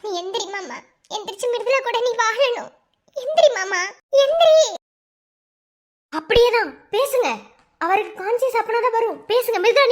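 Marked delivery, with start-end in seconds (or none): 3.2-4.6 high, loud cry to wake him; desperate plea. Acted. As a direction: call out to him, breaking. Wife begs husband to wake. (உயர்ந்த குரலில் கெஞ்சல்)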